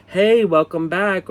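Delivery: high, slow, sing-song friendly greeting; chirpy store clerk. Retold or imitated. Mimicking the cashier's eager hello, high and slow.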